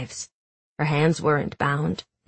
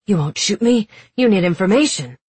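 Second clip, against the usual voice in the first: defiant; 4 semitones higher, 5 dB louder than usual. Acted. Captive defiantly facing gun.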